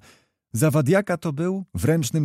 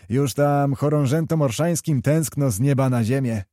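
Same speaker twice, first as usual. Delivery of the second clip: lightly shouted jest; 3 semitones higher than usual. Acted. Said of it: "krzyknął Kokosiński".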